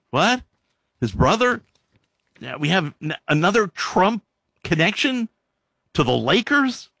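high, disbelieving questions; stunned double take; incredulous. Real, not acted. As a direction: jump up in pitch at each new surprise. Reacting to Kushner news.

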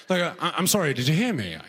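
hesitant, polite British plea; lightly voiced British person seeking help; British accent. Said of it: "like a British person".

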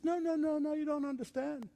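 lightly voiced objection; protesting Eve. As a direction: push back as an earnest Eve. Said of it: "Eve says".

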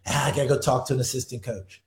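low, softened imitation of a muttered aside; under his breath. Retelling a coach's exit line, almost under his breath. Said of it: "almost under his breath".

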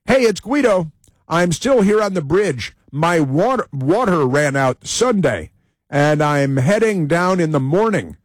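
lightly voiced protester, starting high; Guido. Host reading bridge protester's posts, lightly put-on voice. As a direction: read the post out as a mock announcement. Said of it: "He's got a Twitter".

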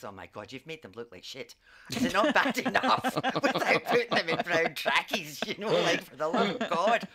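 loud, laughing exasperation; laughing outrage. Retold or imitated. Retelling her reaction to brown jail tracksuits, laughing loudly. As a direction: blurt it out while cracking up. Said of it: "my take on that was".

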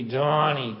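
lightly voiced Boston Irish dad; a hint of the comic's father calling his son; dad impression, lightly done; dad's way of talking. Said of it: "that's the way he talked".

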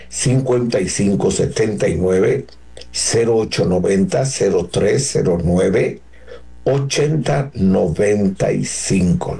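card number read straight through, few pauses; quick number reading. Real, not acted. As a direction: run the digit groups together briskly. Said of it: "Lo dije muy rápido".

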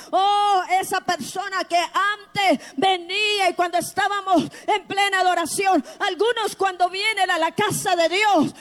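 impassioned Pentecostal-style shout; full-force preaching. Real, not acted.

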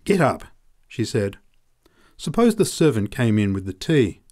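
frightened urgent hush. A narrator's reading. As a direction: hurry him up in a panic.

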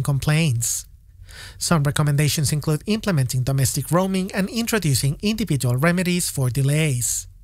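measured scripted radio news delivery; news read. Acted. Reporter introducing a telco report to listeners, news read. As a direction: read it as a current affairs introduction.

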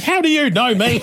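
retold high-pitched demand; indignant outburst. Stops car to confront passenger.

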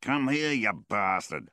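loud, high yell after a runaway dog; angry shout. A narrator's reading. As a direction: bellow it in anger at the dog.

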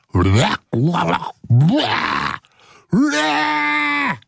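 blah, blah dissolving into high laughter; laughing fit. Real, not acted. Host collapsing into laughter after a flub. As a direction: lose it laughing on the blahs. Cracking up in a blooper.

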